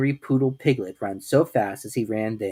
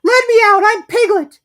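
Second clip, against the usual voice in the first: very high, loud desperate squeal; squealing plea; 14 dB louder than usual. A narrator's reading. Piglet crying to Kanga from the bath. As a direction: scream to be let out. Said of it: "cried Piglet".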